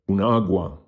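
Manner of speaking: Un agua with the stress on the first a of agua; teacher stressing the first a in agua. Shown as a demonstration. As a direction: lean on the first syllable of agua. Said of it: "the stress falls on the first A".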